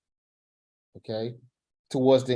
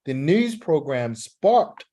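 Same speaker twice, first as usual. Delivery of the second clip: model reading; 2 semitones higher than usual. Shown as a demonstration. Teacher reading the opening aloud as a model for the student. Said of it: "do it one more time".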